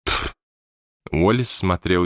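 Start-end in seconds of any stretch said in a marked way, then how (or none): 0.0-0.3 short puff of scorn; unvoiced scoffing puff; dismissive "pff". A narrator's reading. Nelson grumbling as he shuffles away, scoffing. Old man grumbling as he leaves.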